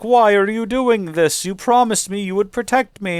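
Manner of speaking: mock-panicked cry of a betrayed old lady; betrayed old woman. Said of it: "the woman was like".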